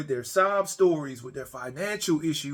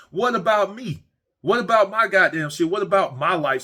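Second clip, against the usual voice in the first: indignant outburst; 5 semitones higher, 6 dB louder than usual. Real, not acted. Ranting about others' problems.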